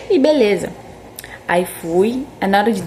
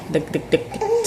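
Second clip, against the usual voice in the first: quick, quieter "duc duc" tremor noise; imitated trembling; 6 semitones higher, 6 dB quieter, slower than usual. Patient showing how her whole body shook, imitated trembling sound. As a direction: tap out a rattling shake in short syllables. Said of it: "meu corpo inteiro tava só assim".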